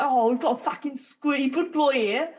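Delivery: a weak mock Australian accent; half-hearted go at an Aussie wildlife presenter accent; barely-there Australian accent, tossed off for a laugh; Steve Irwin Australian accent. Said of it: "That's not an Australian accent".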